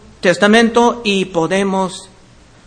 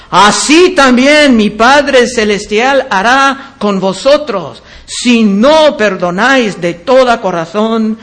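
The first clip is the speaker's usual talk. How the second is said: stern admonition. Acted. Christ warns those who won't forgive, stern admonition. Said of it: "lleno de amonestación".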